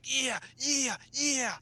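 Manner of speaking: put-on high, loud British-accent cheering; excited British cheer. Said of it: "cussing in his British accent".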